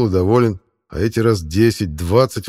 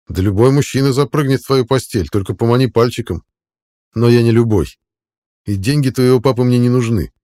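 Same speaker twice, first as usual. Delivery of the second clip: louder, emphatic let-down; firm rejection; 3 semitones higher, 5 dB louder than usual. Acted. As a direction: turn her down with raised voice, point by point. Man firmly rejects girl's advances. (решительный отказ, громче обычного)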